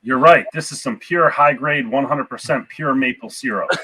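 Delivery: a hint of Canadian Mountie; Canadian accent. Player as a Mountie confirming the syrup find, light Canadian accent. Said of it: "Good job on the Canadian accent".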